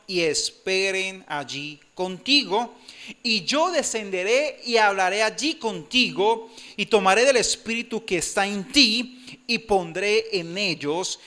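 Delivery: preacher reading Numbers with solemn force; scripture reading. Acted. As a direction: proclaim God's words to the church. Reads scripture aloud.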